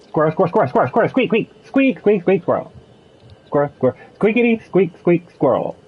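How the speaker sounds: rapid-fire repeated squeak noises; mock squeaking. Riffing on nonsense after the cuss-word talk, squeaking.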